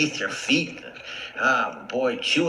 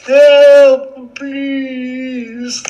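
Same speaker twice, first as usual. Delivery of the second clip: louder, higher desperate yells; cries for help; 14 semitones higher, 11 dB louder than usual. Acted. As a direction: shout for help, trapped.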